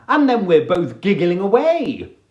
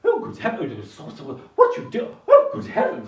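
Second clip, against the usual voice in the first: mock shock. Masseuse shocked at fart.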